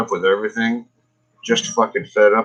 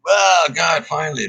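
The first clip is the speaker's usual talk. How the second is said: relieved exclaim; 6 semitones higher than usual. Retold or imitated. Ambers finally appear.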